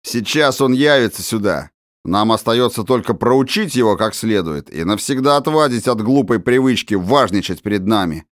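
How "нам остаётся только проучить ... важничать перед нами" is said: ordinary delivery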